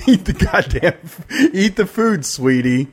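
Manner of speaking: pushy sweet. Retold or imitated. Pushy sweet host forcing food.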